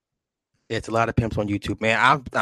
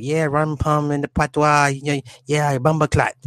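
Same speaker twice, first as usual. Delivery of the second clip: lightly imitated Jamaican patois, a little higher; Jamaican accent; 4 semitones higher, slower than usual. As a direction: put on a slight Jamaican lilt. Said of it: "talking that Jamaican accent".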